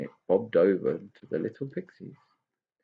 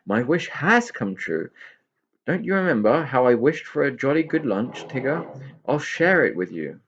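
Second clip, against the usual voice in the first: higher, louder joyful pixie; overjoyed; 5 semitones higher, 4 dB louder than usual. Acted. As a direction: glow with joy at the wish. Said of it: "overcome with joy".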